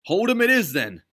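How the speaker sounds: high, loud cheerful shout; Ducky accepting the plan; gruff resolve. A narrator's reading. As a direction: shrug and commit.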